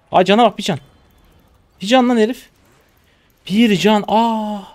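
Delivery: high, loud cries of disbelief; excited outcry. Real, not acted. Streamer seeing the man left with one health, shouting in disbelief. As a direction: yell in disbelief, pitch leaping up.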